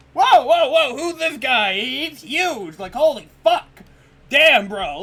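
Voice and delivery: loud, high amazed outburst; real loud disbelief; stunned. Real, not acted. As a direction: react like you can't believe it. Stunned by huge character.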